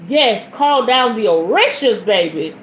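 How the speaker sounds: lightly put-on African accent; imitated African accent. Boyfriend admiring her scent, light African accent. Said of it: "talk to me in his African accent".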